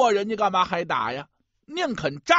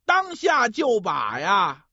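lively pingshu storyteller voice; gravelly dramatic storyteller. A narrator's reading. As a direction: tell it like a dramatic folk storyteller.

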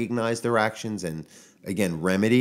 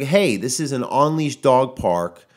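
firm retort. Retold or imitated. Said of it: "I said, I was like".

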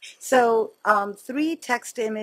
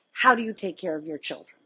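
whispered. Retold or imitated. Quoted question, unvoiced.

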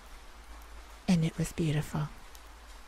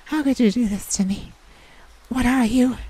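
retold scream; 8 semitones higher, 7 dB louder than usual. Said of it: "I yelled and screamed at him".

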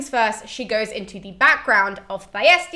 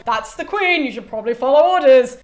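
raised mock calling from the background; urgent prompting; 3 semitones higher, 7 dB louder than usual. Chorus in the background prompting Cassandra, urgent. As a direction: call it out as a helpful nudge.

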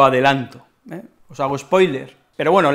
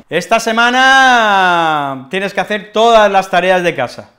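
bossy order; 3 semitones higher, 5 dB louder than usual. Acted. Bossy partner giving orders.

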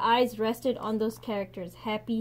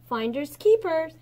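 a pleased, louder claim on his catch; gleeful exclamation; 5 semitones higher, 5 dB louder than usual. A narrator's reading. Fisherman gloating over his catch, exclaiming. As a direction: crow it like a lucky find. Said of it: "he exclaimed".

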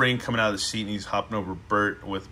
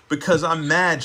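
put-on mildly grumpy girl, higher pitch; 5 semitones higher, 4 dB louder than usual. A narrator's reading. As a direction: grump it with some punch. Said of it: "she grumped".

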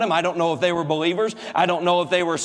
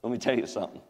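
healed woman; 3 semitones lower than usual. Acted. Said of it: "maybe she said".

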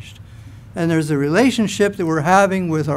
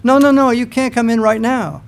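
mock refusal; 5 semitones higher than usual. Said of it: "excuses I could come up with".

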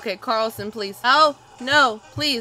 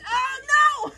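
dismayed shout; 12 semitones higher, 5 dB quieter, slower than usual. Real, not acted. Failing the jump in game.

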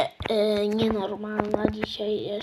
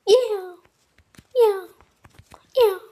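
excited cheer; 9 semitones higher, 3 dB louder, slower than usual. Real, not acted. Cheering during jumps.

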